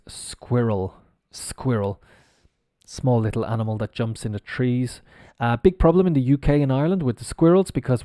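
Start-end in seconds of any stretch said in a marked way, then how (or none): 0.1-2.0 "squirrel" said clearly as a model; pronunciation demo. Shown as a demonstration. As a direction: demonstrate the word "squirrel" for learners. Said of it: "the pronunciation of this word".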